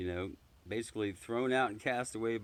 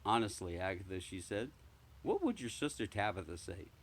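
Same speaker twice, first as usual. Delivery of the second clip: disapproving cat; 3 dB quieter than usual. Acted. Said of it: "a most disapproving look".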